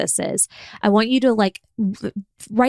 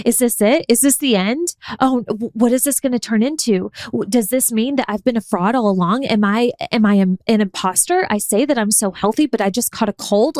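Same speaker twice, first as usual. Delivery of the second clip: mock panic. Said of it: "do I go into a spiral".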